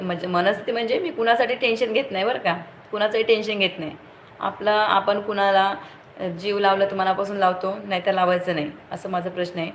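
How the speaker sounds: rising heat, pitch lifted, words tumbling out; passionate outburst. Real, not acted. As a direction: get worked up defending your loyalty. Heated speech on loyalty.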